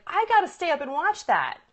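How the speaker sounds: high, loud, eager exclamation; hooked viewer. Acted. Coach acting out a TV viewer, eagerly intrigued. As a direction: voice a viewer grabbed by the tease. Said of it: "where you're like".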